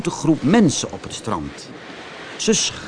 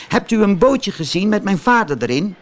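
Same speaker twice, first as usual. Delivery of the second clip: put-on high, hopeful little wooden boy; a boy asking the dolphin about his father; anxious puppet; 8 semitones higher, 3 dB louder than usual. A narrator's reading. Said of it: "vroeg Pinocchio".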